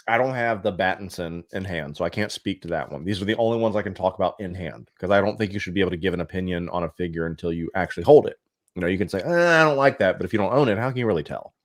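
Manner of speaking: chewing while talking; mouth full. Real, not acted. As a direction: talk through a mouthful of candy. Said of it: "Sorry, I'm chewing on Skittles".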